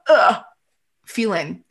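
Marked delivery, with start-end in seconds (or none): 0.1-0.4 dread groan. Retold or imitated. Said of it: "you've got that".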